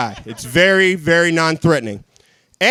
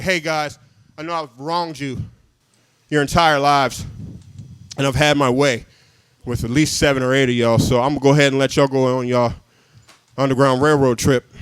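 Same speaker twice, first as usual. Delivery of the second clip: a gentle, self-satisfied slave master; lightly voiced smarmy master; progressive master; 5 semitones lower than usual.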